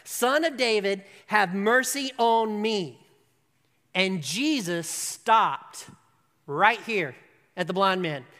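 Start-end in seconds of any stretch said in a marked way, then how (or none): 0.0-3.0 louder, pleading cry of a beggar. Acted. Blind beggar crying out to Jesus, louder pleading call. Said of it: "cried out all the more".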